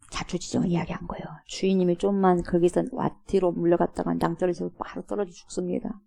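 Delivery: hushed, fast whispered explanation. Acted. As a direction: breathe it out fast like a frightened servant.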